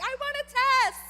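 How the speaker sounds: loud high mock demand for a test. Teacher retelling a student demanding a test, loud and high. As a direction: imitate her yelling she wants a test. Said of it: "she's like".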